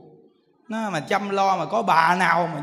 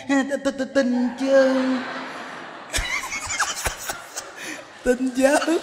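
lightly voiced meek old lady, higher; meek old woman; 5 semitones higher, much slower than usual. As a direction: answer yes timidly, half-laughing. Old woman meekly answers yes. (giọng bà già rụt rè, hơi cao)

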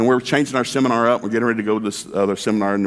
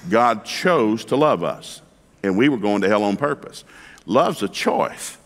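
slow emphasis; slower than usual. Real, not acted. Preacher slows for emphasis.

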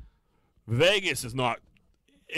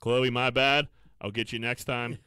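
mock apology; 3 dB louder than usual. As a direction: imitate a lame apology, laughter creeping in. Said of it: "putting up Instagram apologies like".

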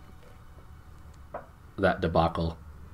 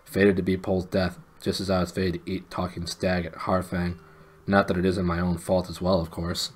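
glum groan; 2 semitones lower than usual. Acted. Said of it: "groaned Puddleglum".

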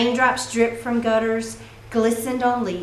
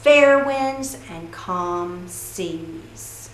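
pirate farewell; 3 dB louder, slower than usual. Acted.

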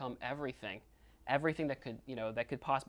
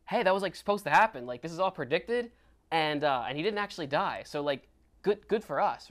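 higher, upbeat retold enthusiasm; excited; 4 semitones higher, 4 dB louder than usual. Peter says it was all predicted, excited. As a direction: share it as happy news. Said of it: "he's excited about it".

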